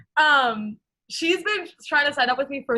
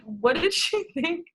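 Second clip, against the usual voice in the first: baffled laughing quote; 7 semitones higher, slower than usual. Retold or imitated. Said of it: "I was like".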